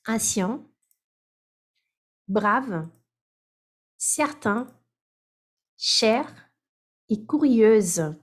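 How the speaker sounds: each adjective read alone, with long pauses; word list read out slowly. Shown as a demonstration.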